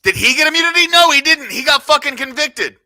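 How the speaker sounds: high, loud heated retort; angry shouting. Real, not acted. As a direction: shout him down in the argument. Heated argument over immunity.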